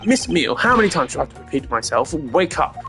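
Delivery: exasperated call. Acted. Detective rousing a dozing witness, exasperated. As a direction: call sharply to rouse a dozer.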